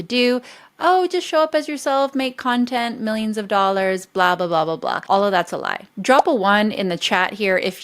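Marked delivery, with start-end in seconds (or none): 0.8-5.0 mocking quote. Mocking Instagram coaches to her audience, a dismissive mock voice that fades. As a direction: parody the glib Instagram coach, then trail off bored. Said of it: "what all the Instagram coaches are telling people".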